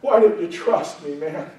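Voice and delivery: loving friend. Acted. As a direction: chide him gently, like a friend. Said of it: "a loving friend who said".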